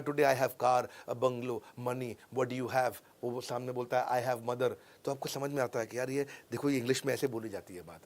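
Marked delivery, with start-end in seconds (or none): 0.0-4.7 translated film dialogue. Acted. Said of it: "नीचे लिखा हुआ है".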